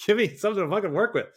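high, loud, fast frustrated rant; loud fed-up plea; exasperated outburst. Real, not acted. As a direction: vent it, fed up and pleading. Ranting about bad videos.

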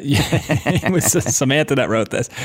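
laughing through the words; amused at your own slip, laugh as you talk. Real, not acted.

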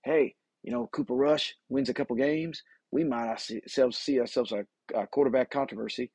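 put-on folksy hillbilly accent; Jerry Jones hillbilly accent. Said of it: "That's my, uh, hillbilly talk".

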